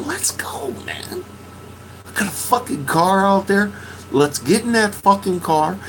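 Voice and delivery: high, pushing urgency; urging. Retold or imitated. Urging friend to get in the car, high and pressing. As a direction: coax him up to leave. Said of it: "I said".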